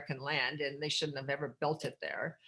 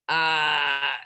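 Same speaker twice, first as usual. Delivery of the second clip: shocked cry; 3 semitones lower, 8 dB louder than usual. Retold or imitated. Coworkers' shocked reaction.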